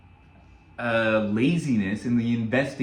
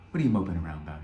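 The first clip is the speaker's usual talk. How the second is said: grandfather's voice; 7 semitones lower, much faster than usual. Retold or imitated. Grandfather asks the moping boy.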